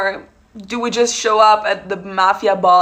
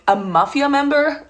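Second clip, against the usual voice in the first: higher, rising disbelief; puzzled repeat, pitched up; incredulous echo; 4 semitones higher than usual. Retold or imitated. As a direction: throw the words back in disbelief. Echoes the question in disbelief.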